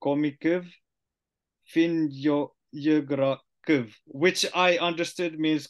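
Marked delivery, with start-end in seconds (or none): 0.0-3.9 slow careful read of Komikyv Finjo Ugrikyv. Shown as a demonstration. Learner reading the Komi phrase slowly. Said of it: "It says".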